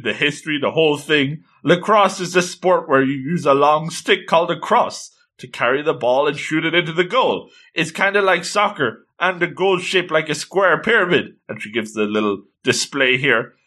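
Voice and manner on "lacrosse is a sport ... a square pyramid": lightly voiced eager explainer, pitched up; mock Wikipedia introduction; encyclopedia recital. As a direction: reel off facts like an enthusiast. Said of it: "the Wikipedia introduction".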